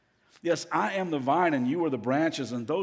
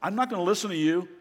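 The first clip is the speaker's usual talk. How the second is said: defiant retort; 4 semitones higher than usual. Retold or imitated. Voicing a defiant person's reply.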